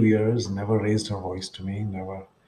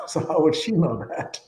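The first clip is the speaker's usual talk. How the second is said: laughing through the punchline, higher; 6 semitones higher than usual. Retold or imitated. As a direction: chuckle out the rhetorical question. Laughing at his own retort.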